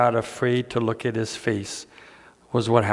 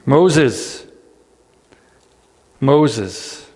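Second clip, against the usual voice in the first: a louder call that falls away; 3 semitones higher, 5 dB louder than usual. Acted. Preacher echoes God's gracious call to Moses, louder. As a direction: call his name with grace.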